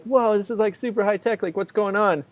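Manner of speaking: hushed amazed tourist voice; awed whoa. Retold or imitated. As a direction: gawk at the high-tech hallway. Awed entering police station.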